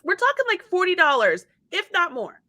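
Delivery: ordinary delivery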